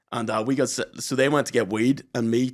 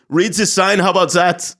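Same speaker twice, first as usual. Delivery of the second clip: louder, higher mock snap; curt barman; 6 semitones higher, 7 dB louder than usual. Barman tells the lads to read the sign, mock snappy. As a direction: throw it back at them like a rude barman.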